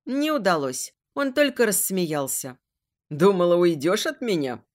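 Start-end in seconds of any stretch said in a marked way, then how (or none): 3.1-4.6 taunting. Acted. Villain taunts captive.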